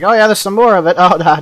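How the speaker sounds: high, loud taunting mock voice; mocking the cave. Gamer voicing the cave as a taunting trickster, high mock voice. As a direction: pretend the cave is teasing you. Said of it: "It's like".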